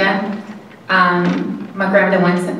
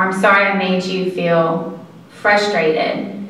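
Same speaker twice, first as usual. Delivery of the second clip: gentle apology. Shown as a demonstration. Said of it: "learning to say".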